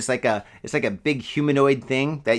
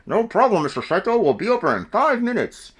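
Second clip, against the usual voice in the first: cheerful service rep; 5 semitones higher than usual. Acted. Company answers customer.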